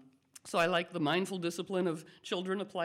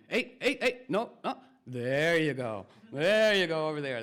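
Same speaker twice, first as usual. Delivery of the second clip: whisperer calling; 4 dB louder than usual. Pretend. Politician whisperer steering someone along, lightly voiced. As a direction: call out, then soothe like a dog trainer. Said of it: "politician whisperers going".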